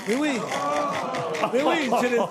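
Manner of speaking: mock posh voice. Pompous mock upper-class voice.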